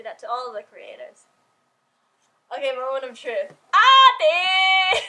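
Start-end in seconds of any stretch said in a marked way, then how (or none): 3.7-5.0 high, loud tearful cry; sudden emotional shout. Real, not acted. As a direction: call the name out on a sob. Moment of truth, crying out.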